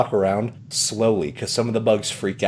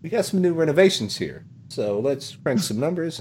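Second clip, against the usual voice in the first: Tom Nook; 5 semitones higher than usual. Acted. Salesman explaining new charges, slick high patter. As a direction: brush it off high, then ease into the pitch. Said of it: "And he's like".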